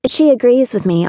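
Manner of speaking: light, high chirp for a classmate; Brielle. A narrator's reading. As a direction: chirp it confidently. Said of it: "Brielle would chirp".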